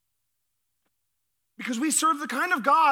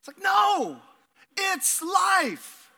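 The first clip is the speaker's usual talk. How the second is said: higher, brushing it off; dismissive no; 6 semitones higher, much slower than usual. Acted. Pastor dismissing the congregation's theory, higher dismissive no. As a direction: shrug the idea away. Rejecting karma theology.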